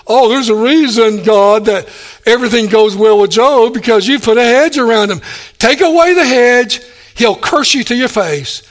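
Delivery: mild mock accuser egging God on; taunting Satan. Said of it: "Satan when he appeared before God with Job and says".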